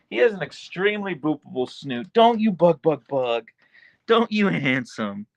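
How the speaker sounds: high cooing pet talk. Real, not acted. Owner cooing at handsome husky Archer.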